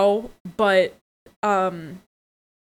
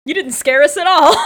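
smug taunt, louder; mock taunt; 5 semitones higher, 7 dB louder than usual. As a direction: toss off a cocky taunt. Mock taunt one-liner.

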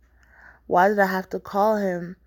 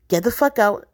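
angry order; 3 semitones higher, 6 dB louder than usual. Acted. Acted quarrel, ordering him out.

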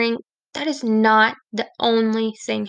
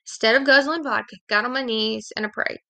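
serious now. Shown as a demonstration. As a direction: settle down and mean it this time. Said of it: "serious now".

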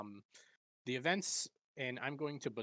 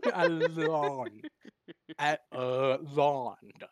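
louder, laughing through the name; laughing mispronunciation; 3 semitones higher, 10 dB louder, much slower than usual. Real, not acted. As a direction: fumble the name while cracking up. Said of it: "what you just did there was great".

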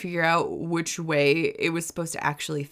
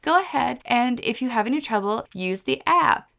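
higher mocking helpdesk voice; mocking the instructions, higher and sing-song; 7 semitones higher than usual. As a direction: parrot the cheery manual. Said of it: "And they're like".

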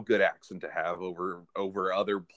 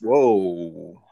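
surprised; 5 semitones lower, 8 dB louder than usual. Real, not acted. Reacting to hot food.

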